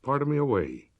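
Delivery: stern sister ordering Amy to prayer, cold. Acted. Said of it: "said the cold voice".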